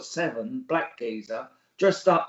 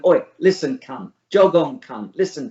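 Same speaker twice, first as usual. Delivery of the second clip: a football hooligan mouthing off at a stranger, loud; aggressive insults; 7 dB louder than usual. Retold or imitated. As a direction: hurl it like a lad squaring up. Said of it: "keep calling".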